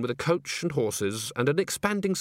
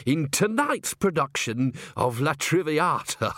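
hesitant, slow, with nervous laughs; nervous laughing; 2 semitones higher than usual. Acted. Bucket breaks the news to Agnes, nervous laughs.

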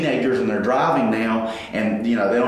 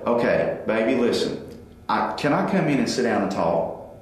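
calm approach; 3 semitones lower than usual. Retold or imitated. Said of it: "you take a time out".

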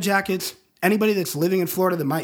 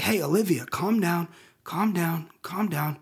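calming. Retold or imitated. Father soothing panicking daughter.

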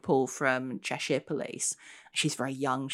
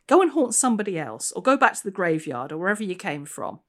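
higher, louder irritated order; 4 semitones higher, 5 dB louder, faster than usual. Acted. Constable ordering the ghost away, irritated. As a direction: shoo the ghost away, fed up.

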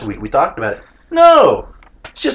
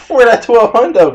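mock collector; 12 semitones higher, 8 dB louder than usual. Playing the debt collector.

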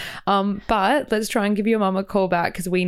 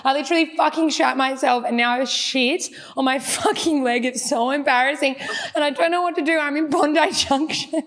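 fake laughing panic; 4 semitones higher than usual. Confessing a fake accident to her friend, laughing and crying. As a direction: laugh through fake distress. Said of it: "I'm an actress".

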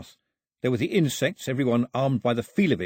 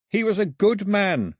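slow, higher, louder cry upward; shouted; 10 semitones higher, 5 dB louder, slower than usual. A narrator's reading. Mao shouting his grief to the sky, slow and loud. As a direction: call it to the heavens, drawn out. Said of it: "he shouted to the sky".

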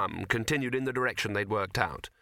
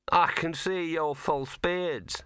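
put-on slow, scornful, higher ticket girl; sniffy ticket girl, slow and higher; 6 semitones higher, much slower than usual. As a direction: look down your nose at them. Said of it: "said the girl and sniffed".

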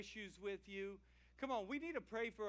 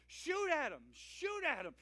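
urgent panicked shout, much louder and higher; frantic yell; 5 semitones higher, 4 dB louder than usual. Acted. Thibodeau yelling at Boudreaux to shoot the pursuers, panicked shout. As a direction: yell it like the bad guys are right behind you.

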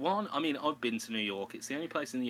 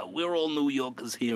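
New York voice; 3 semitones higher, 4 dB louder than usual. Retold or imitated. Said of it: "the New York voice started".

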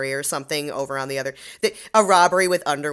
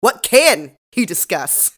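loud, drawn-out exasperated question; weary exasperation; 3 semitones higher, 7 dB louder, much slower than usual. Retold or imitated. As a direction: imitate a fed-up detective, word by word. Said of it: "Stabler's tired".

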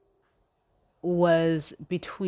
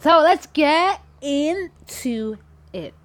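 sultry; 7 semitones higher, 5 dB louder, much slower than usual. Acted. Drawn-out seductive intro.

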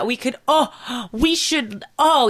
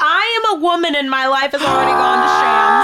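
mock dramatic lament; 4 dB louder than usual. Mock despair about her fate.

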